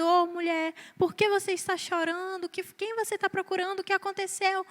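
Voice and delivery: soft, hushed, tender asking; a quiet, caring question to a weeping woman; gentle imagined Jesus. Shown as a demonstration. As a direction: ask her softly, as if consoling. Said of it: "eu imaginava que Jesus tinha chegado pra ela e perguntado".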